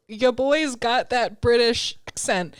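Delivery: put-on drawn-out line, "accent" with the first vowel swallowed; slow quote ending on a clipped-A "accent"; dropped-A accent. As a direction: relish it slowly, saying "accent" as 'ccent. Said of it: "So I keep saying it like that".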